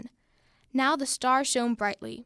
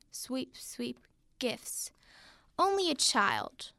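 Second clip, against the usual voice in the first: quiet muttering; 5 dB quieter, slower than usual. Acted. Muttering while sweeping.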